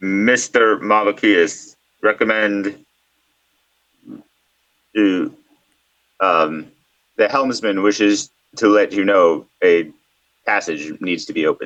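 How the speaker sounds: weird, strange, near-mechanical, almost robotic delivery. A strange voice heard in the dark speaks up, almost robotic voice. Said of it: "almost robotic voice".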